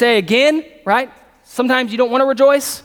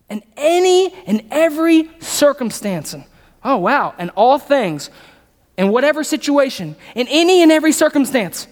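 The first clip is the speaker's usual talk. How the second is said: emphatic preaching; 3 semitones higher than usual. Acted.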